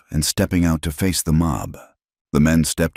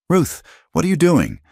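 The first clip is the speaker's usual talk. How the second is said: high, sharp demand, raised voice; 13 semitones higher, 3 dB louder than usual. A narrator's reading. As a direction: call her out in disbelief. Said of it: "Brennan demanded".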